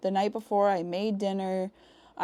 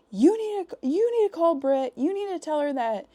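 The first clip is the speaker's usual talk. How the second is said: high-pitched, loud frantic orders; retold frantic yelling; 8 semitones higher, 4 dB louder than usual. Caller panicking about bugs, yelling at partner to get help. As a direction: yell urgent orders way up high. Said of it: "I'm yelling at you".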